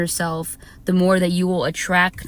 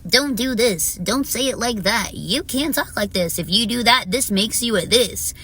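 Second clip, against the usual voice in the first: mock critics; 3 semitones higher than usual. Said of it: "silencing and minimizing my soul".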